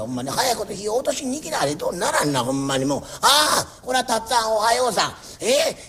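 a lightly voiced fussy old landlord making his rounds; nagging landlord. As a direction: scold each tenant kindly but nonstop. Landlord scolds more tenants. (小言好きの家主が長屋を回って小言を言う口調)

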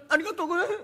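high, giggling thanks rising at the end; laughing thanks. Acted. Merchant thanking the samurai for water, laughing. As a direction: gush it out through a laugh.

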